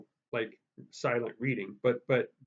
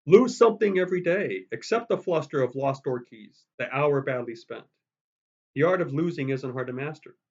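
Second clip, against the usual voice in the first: expressive poem reading; 4 dB louder than usual. Shown as a demonstration. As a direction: read for the poem's power. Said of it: "make the power of the poem come out".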